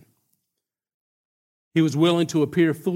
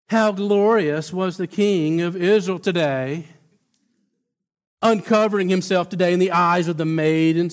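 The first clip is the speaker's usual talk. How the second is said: sarcastic; 2 semitones higher, 3 dB louder than usual. Acted. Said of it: "You can just hear the sarcasm dripping off of that".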